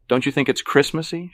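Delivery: high, eager question; hopeful. A narrator's reading. Evelyn seeking approval of her party, hopeful. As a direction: ask loudly, hoping for approval. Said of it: "she asks hopefully".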